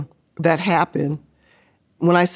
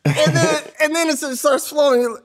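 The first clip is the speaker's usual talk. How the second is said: close to tears; 7 semitones higher than usual. Retold or imitated. Tears start flowing in front of coach.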